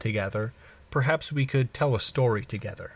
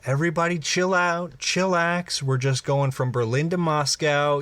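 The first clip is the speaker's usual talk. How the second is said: pilot calming passengers; 5 semitones higher than usual. Acted.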